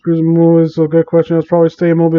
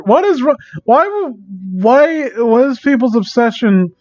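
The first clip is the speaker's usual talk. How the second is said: stammering, much higher, disbelieving; incredulous exasperation; 5 semitones higher than usual. Real, not acted. Streamer reacts to a Rick X Reader fanfic, high incredulous sputter. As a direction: sputter in shock before the full question.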